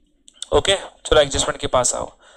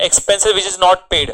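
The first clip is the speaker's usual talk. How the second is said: slow dictation; 2 semitones higher, 3 dB louder, much slower than usual. Shown as a demonstration. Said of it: "dictating definition".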